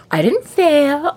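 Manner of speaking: slow, high, deliberately calm; forced calm. Retold or imitated. Dresden forcing calm to the council, slow, high, careful. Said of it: "he's trying to be calm".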